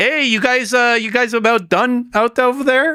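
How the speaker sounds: very high, poor fake Canadian accent. Imagining a call heard across the trenches while fighting in Toronto: bad Canadian accent. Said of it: "I can't do a good Canadian".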